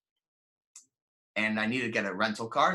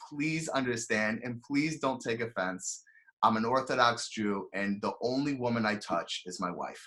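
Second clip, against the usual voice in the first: sincere and gentle; 3 semitones lower, 4 dB quieter than usual. Retold or imitated. Telling the rental clerk gently and sincerely why he won't hug. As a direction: gently explain without giving offence. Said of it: "nice as I can ... best type of tone and sincerity I can muster".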